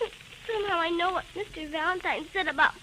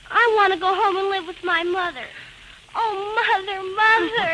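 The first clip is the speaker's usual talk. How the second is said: crying plea; 5 dB louder than usual. Acted. Girl choosing to live with her mother, crying. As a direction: sob out the choice to her mother.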